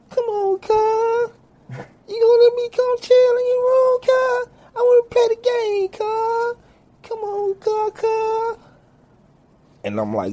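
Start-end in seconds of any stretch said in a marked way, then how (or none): 0.1-8.6 put-on very high, pleading little-kid voice; whiny kid cousin. Little cousin begging to chill in his room, squeaky high kid voice.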